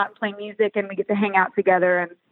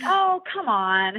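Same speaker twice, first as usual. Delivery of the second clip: dismissive; 4 semitones higher, much slower than usual. Retold or imitated. Retold reply to daughter.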